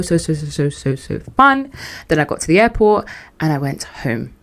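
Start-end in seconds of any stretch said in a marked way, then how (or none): 0.0-1.7 gushing. Real, not acted. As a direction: draw out the fun, pitched up. Gushing about solo trip.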